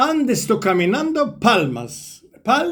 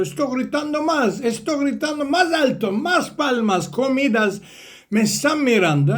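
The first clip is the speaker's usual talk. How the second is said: excited boasting; 4 semitones higher than usual. Acted. Donkey bragging to cow and horse, excited and high.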